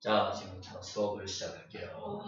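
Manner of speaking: low, soft droning teacher; sleepy teacher. Shown as a demonstration. Sleepy teacher starting class, low and soft. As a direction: drone it low and dull. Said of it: "졸린 선생님".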